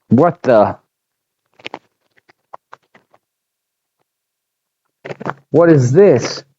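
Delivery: startled, mildly panicked whimper; fearful whimper. A narrator's reading. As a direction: let panic seep lightly into the voice. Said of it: "Brutus whimpered with fear".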